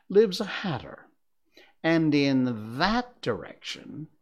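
slow, teasing cat voice; amused cat, taking its time; snooty bored cat. Acted. The Cheshire Cat voiced in story.

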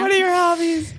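eager question. Retold or imitated. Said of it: "in that mode".

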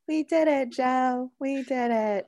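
lightly voiced cheerful politician; happy, breathless victory call; Kamala impression. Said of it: "when Kamala does".

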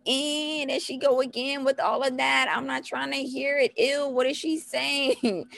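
high, mock-whining child; whiny toddler. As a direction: complain like a fed-up little kid. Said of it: "they hearing all that and they like".

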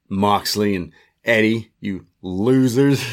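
slow, drawn-out mocking jeer; slow gloating heel sneer; sneering taunt. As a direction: rub their noses in it. Mocking heel promo quote.

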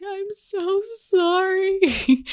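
high, slow, tearful apology; slow high-pitched sobbing sorry; crying apology. Retold or imitated. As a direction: stretch it out, high and weepy. I started crying and I was like.

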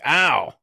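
mock pained yelp. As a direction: imitate a quick yelp of pain. Acting out pain at examination.

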